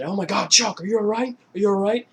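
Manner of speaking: high, loud panicky friend voice; worried friend imitation. Friend checks on Chuck after the fall, high panicked voice. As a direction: squeak out the worry for your buddy. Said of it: "he, uh, said".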